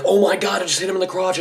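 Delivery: put-on high excited kid voice. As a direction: shriek it like a kid on the playground. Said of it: "Everyone's like".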